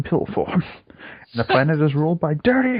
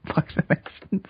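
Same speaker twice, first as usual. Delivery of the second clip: flat repeat; 5 semitones higher than usual. Pretend. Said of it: "Not exactly what I said".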